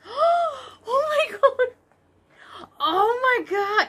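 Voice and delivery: gasp, then high, drawn-out cry of joy; overwhelmed squeal. Real, not acted. Vlogger discovering her favourite yarn, overwhelmed squeal. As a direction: squeal it very slowly, overcome. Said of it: "My voice goes really high when I'm excited".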